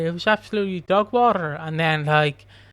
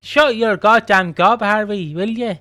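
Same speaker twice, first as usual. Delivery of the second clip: slow, loud, higher snarl at Harvey; angry telling-off; 4 semitones higher, 6 dB louder than usual. Retold or imitated. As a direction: bark it out slowly and loudly like a fed-up father. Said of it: "So he's just like".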